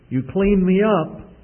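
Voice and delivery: put-on a small boy protesting in confusion; puzzled little boy.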